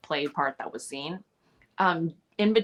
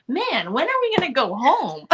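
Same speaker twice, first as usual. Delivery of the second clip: bored whine; 9 semitones higher, 5 dB louder than usual. Retold or imitated. Imitating Ben waiting in trailer.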